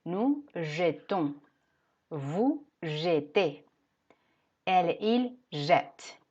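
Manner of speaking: jetons slow, closed e; slow model. Shown as a demonstration. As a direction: model jetons and jette slowly. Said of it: "no doblamos la T".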